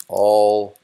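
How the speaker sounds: slowly reading out the error message; error message readout. Shown as a demonstration. Coder reads the error message aloud, slow and deliberate. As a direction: spell out the error text. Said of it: "we can say something like".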